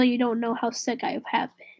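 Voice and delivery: voiceless whispered aside; whispering. Real, not acted. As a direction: drop to a breathy whisper. Aside under the breath.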